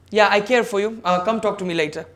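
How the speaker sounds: offhand, brushing-off care; dismissive. Shown as a demonstration. Speaker showing students a dismissive I care for you. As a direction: toss it off like you don't mean it. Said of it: "the tone that I have utilized are different".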